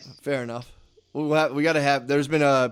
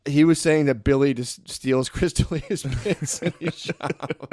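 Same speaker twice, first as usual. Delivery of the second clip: laughing; slower than usual. Real, not acted. Retelling the call, cracking up.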